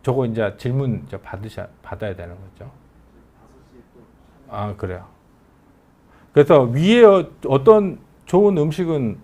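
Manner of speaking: ordinary delivery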